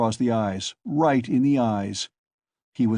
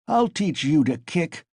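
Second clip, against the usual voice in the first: ferocious shout; 6 semitones higher than usual. A narrator's reading. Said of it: "Mikolka shouted ferociously".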